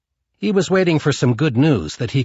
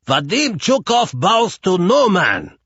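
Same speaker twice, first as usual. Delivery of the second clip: loud, higher proud declaration; defiant shout; 8 semitones higher, 4 dB louder than usual. A narrator's reading. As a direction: throw it at the walls so they echo. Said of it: "he bellowed".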